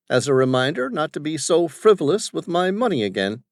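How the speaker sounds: put-on high, loud, bossy old businessman; domineering father. Father questioning his son's crew, bossy and loud. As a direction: voice the overbearing father barking at his staff.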